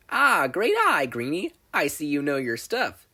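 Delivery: bright, loud burst of enthusiasm; eager greeting. Acted. Inventor girl praising Izuku, excited. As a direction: hail him like a fan of your work.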